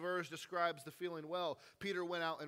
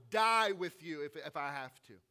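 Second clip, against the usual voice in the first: loud, fast, cocky promise; overconfident Peter; 7 dB louder than usual. Retold or imitated. Overconfident Peter swearing loyalty to Jesus, loud and cocky. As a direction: swagger through the vow. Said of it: "Peter being the overconfident guy".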